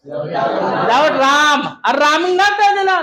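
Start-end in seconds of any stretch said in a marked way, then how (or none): 0.1-1.7 slow spelled-out phrase. Shown as a demonstration. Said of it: "बगैर राम के".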